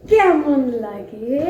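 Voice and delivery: slow, stretched teasing question; drawn-out teasing. Shown as a demonstration. Mother teasing her daughter under the quilt, slow and drawn out.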